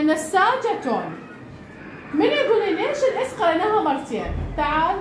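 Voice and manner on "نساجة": نساجة read very slowly, each syllable drawn out; slow reading demo. Shown as a demonstration. Teacher showing pupils how to read نساجة, very slowly. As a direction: spell out نساجة slowly for the class. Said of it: "هسه هنا عندنا".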